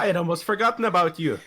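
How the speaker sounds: quick, unsure blend of Australian and Scottish; muddled Australian-Scottish accent. Acted. Greeting an old acquaintance, muddled Australian-Scottish accent. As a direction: waver between Australian and Scottish. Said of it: "I can't tell if he's Australian or Scottish".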